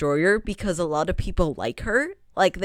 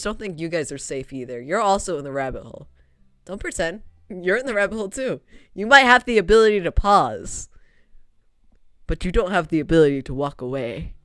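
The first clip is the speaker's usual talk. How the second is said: ominous; 3 semitones lower than usual. Pretend. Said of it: "I sound so ominous".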